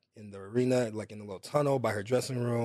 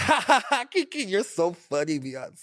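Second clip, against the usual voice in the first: fake laugh; 8 semitones higher than usual. Fan fake-laughing at a singer's joke, hammed-up high laughter.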